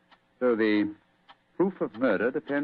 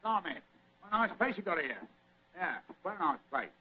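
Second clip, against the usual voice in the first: higher, rough working-class bluster; rough common man disguise; 7 semitones higher, 4 dB louder than usual. Acted. Holmes in disguise bluffing his way into the society, rough higher common voice. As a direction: play a coarse stranger barging in, pitched up. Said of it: "He speaks very rough".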